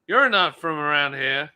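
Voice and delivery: rough American cowboy twang; attempted American accent. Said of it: "I can't do her accent".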